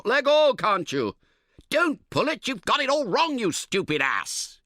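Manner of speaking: very high, loud furious shout, slowing at the insult. Acted. Camper shouts at his tentmate over the tent, high and furious. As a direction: bellow at him to let go. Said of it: "you shout".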